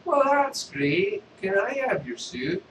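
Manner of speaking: high slow beggar voice; street beggar. Acted. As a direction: ask slowly, high and cheeky. Beggar asks for the suit.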